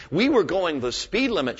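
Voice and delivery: mildly proud retold reply; a bit proud. Lady answering the officer in a joke, a bit proud. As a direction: answer with understated pride. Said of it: "she said a bit proudly".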